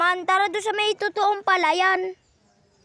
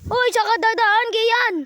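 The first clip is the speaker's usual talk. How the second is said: calling out; 4 semitones higher, 5 dB louder than usual. Pretend. Calling out while fleeing.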